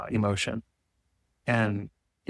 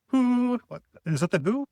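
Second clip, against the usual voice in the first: excited; 12 semitones higher than usual. Real, not acted. Excited jump in pitch.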